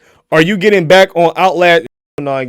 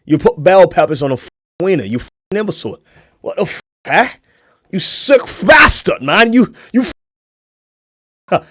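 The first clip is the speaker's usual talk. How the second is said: angry. Real, not acted. Angry rant at a food video.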